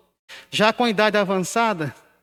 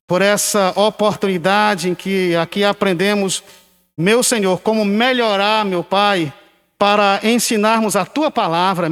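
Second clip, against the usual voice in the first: steady, earnest spoken prayer; congregational prayer. Real, not acted. Pastor prays to the Father for pupils and teachers, earnest prayer. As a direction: lead the church in a closing prayer.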